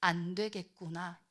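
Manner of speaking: low, soft, sighing lament; resigned, low and slowing at the end; weary disappointment. Acted. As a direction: sigh over wayward children. God voiced giving up on people.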